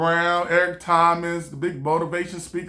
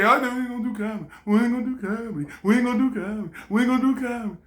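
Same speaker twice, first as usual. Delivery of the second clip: nagging inner voice; 3 semitones higher, much faster than usual. Retold or imitated. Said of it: "that's all you hear".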